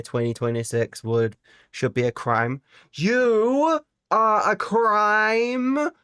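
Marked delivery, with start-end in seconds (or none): 2.9-5.9 high, slow, loud squeaky accusation; silly high character voice; squeaky mock retort. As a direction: point and shriek it in a silly voice.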